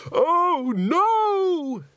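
very high, loud shriek of alarm; scream. Acted. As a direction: scream it out in fright. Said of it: "screamed someone".

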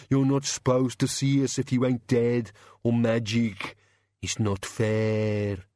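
aggrieved monster grumble, dragging at the end; sulky creature voice; mumbling bogeyman. Acted. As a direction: grumble as a hard-done-by bogeyman. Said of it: "it mumbled".

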